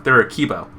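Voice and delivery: "kibo" ending in a clear "bo"; keeper as kibo. Shown as a demonstration. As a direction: clip keeper into "kibo", KEE-bo.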